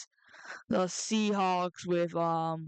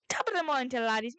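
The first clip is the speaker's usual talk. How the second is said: mock Irish accent; much faster than usual. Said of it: "my Irish accent was that good".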